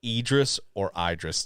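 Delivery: "Idris or Idris", long E first, long I second; two pronunciations compared. Shown as a demonstration. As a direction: say Idris first as EE-dris, then as EYE-dris. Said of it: "Just say E or I in the chat".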